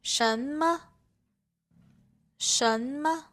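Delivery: rising 什, quick light 么; neutral tone. Shown as a demonstration. Teacher giving Chinese examples, light neutral tone on 么. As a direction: say 什么 with 么 short and unaccented. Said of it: "the second character has a neutral tone".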